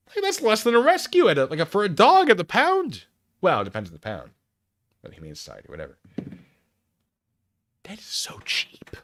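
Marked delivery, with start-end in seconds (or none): 0.1-3.0 much higher and louder, thrilled at the bargain; excited disbelief. Real, not acted. Streamer reacts to the goat price with excited disbelief. 7.8-8.9 slow, awed whisper. Real, not acted. Streamer marvels at the cheap goat in a slow whisper.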